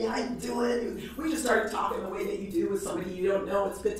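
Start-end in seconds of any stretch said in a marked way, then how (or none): 0.0-1.0 bright, lively hello; lively greeting. Retold or imitated. Bored clerk perking up to greet a customer, lively. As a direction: greet her like he just woke up. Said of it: "He was lively".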